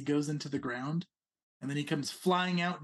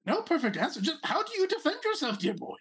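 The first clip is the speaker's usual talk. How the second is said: lightly raised, pompous little prince; a hint of a haughty rabbit noble; 5 semitones higher than usual. Prince presses the player.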